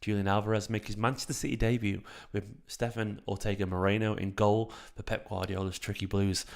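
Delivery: a light, hushed ASMR take on the match intro. Shown as a demonstration. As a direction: lean into the mic and purr the match intro. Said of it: "That's my A-, A S M R voice".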